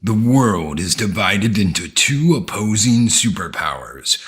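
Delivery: slow, dramatic movie trailer voice; lightly voiced epic trailer narrator; old sci-fi announcer. Reciting the Robot Jox trailer narration.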